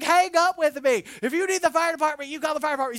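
high, loud stern mom; commanding mother. Retold or imitated. Mother ordering her son, loud and firm. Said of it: "she's like".

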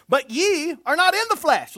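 loud, high preaching voice; ringing scripture declaration; projected scripture reading. Acted. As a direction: proclaim the verse to the congregation. Reads scripture aloud, projecting.

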